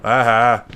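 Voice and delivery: hammed-up fake laugh; a showy pretend laugh; mock laugh. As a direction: corporal mock laughing at the young private. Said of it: "Pat mock laughs".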